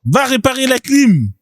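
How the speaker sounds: high-pitched, laughing repeat; amused mocking echo. Echoes the clip, laughing at it.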